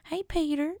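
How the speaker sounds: put-on high sickly old man; old man impression. Old man from Family Guy hailing Peter, high voice. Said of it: "now I'm starting to sound like".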